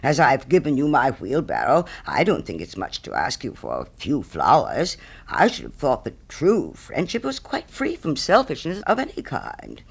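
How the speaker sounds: lightly voiced pompous miller with big pitch swings; emphatic, swooping miller's speech, lightly characterised; self-satisfied miller. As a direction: play a miller grandly praising his own generosity. Miller in the story.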